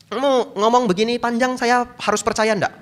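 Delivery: high, arrogant demand; rude challenge. Retold or imitated. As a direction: throw the challenge rudely. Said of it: "ngomongnya kasar sekali". (nada kasar menantang)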